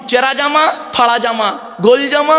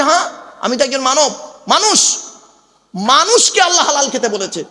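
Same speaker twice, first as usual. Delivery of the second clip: raised quoting voice; 5 semitones higher than usual. Retold or imitated. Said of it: "বলছে".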